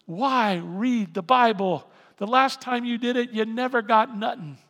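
loud, emphatic taunt; forceful sneering challenge, far from any whisper; mocking tempter. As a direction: play the tempter, loudly needling. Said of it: "he whispers and says to you".

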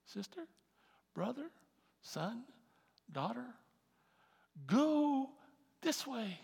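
lightly voiced God calling his children; tender divine direction, then a firm point. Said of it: "like a laser beam".

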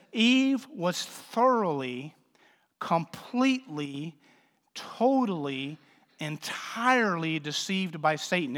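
each word slowed and weighed: thoroughly, completely, totally, entirely; slow emphatic list. Acted. Preacher stressing how deceived Eve was, slow and deliberate. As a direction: spell out each adverb slowly. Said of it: "the meaning is this".

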